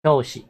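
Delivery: 教 in 教室 stressed with a falling tone; stress on first syllable. Shown as a demonstration. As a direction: demonstrate 教室 with the accent on 教. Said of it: "那个教的话它是重音哦".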